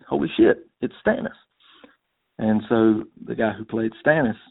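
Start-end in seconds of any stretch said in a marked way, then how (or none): 0.1-1.3 higher-pitched exclamation of recognition; retold surprise. Caller recalls spotting Stannis as King of England, surprised. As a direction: relive the jolt of spotting a familiar face. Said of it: "and I'm like".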